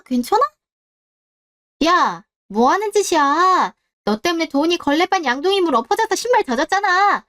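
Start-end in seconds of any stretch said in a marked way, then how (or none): 1.9-7.2 sharp, raised reproach; irritated bully telling her off; angry scolding. Acted. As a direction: snap at her for the mess. Bully yelling over wet shoes.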